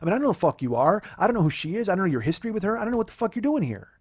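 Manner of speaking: mildly irritated retold tirade, pitch climbing; worked-up retelling, pitch rising toward the end; a little pissed off. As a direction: list the grievances with rising exasperation. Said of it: "start getting a little pissed off".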